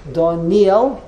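"Doniel" the everyday way, emphasis on the N; common pronunciation. Shown as a demonstration. Teacher checks the common name with the class, "Doniel" stressed on the N. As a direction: say "Doniel" with no separate Y, rising to a question. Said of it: "isn't that the common way".

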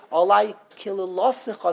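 KILILOSICHA with the LO leaned on; stress on the lamed. Shown as a demonstration. Teacher showing where the emphasis goes, stress on LO. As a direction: hit LO in KILILOSICHA, falling away after. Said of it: "it's on the lamed".

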